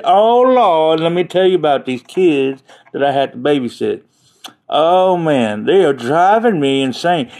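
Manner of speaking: exasperated mock lament, Oh Lord up high; lightly voiced weary friend; imitating Channing. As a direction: ham up a fed-up babysitter. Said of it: "I hear her go".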